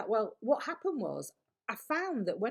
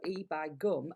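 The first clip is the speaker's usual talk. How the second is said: Yorkshire E by gum; slower than usual. Shown as a demonstration. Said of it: "in my head go".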